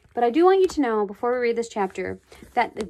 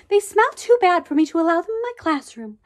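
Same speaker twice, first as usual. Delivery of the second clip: a higher, firm teacher voice; stern teacher; 7 semitones higher, 5 dB louder than usual. A narrator's reading. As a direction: scold the pupil as a strict teacher. Teacher scolding a rude pupil.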